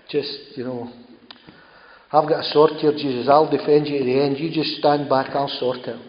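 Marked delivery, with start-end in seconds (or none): 2.1-6.0 a bolder, louder Peter promising to fight; eager Peter. Retold or imitated. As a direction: puff up like a loyal man ready to fight. Voicing Peter offering to fight.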